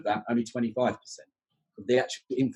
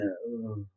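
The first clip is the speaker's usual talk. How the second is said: half-voiced groan of dismay; imitated student groan; 8 dB quieter than usual. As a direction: groan quietly like reluctant students. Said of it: "it makes them groan".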